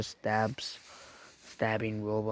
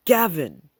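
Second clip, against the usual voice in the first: calling out; 6 semitones higher, 9 dB louder than usual. Acted. Gavbot walks in, calls out.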